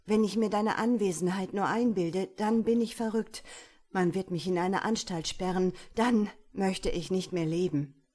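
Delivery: loud, desperate and frantic. Acted. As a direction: cry out in despair. Desperate outburst at window.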